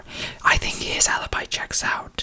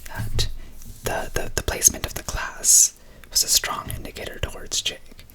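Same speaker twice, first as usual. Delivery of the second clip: hushed ASMR whisper. Real, not acted. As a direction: whisper close to the mic, gently.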